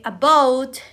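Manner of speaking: "about" slow, stress on the second syllable, a-BOUT. Shown as a demonstration. Teacher demonstrating clapping on stressed syllables, stress on BOUT. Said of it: "say the stress syllable".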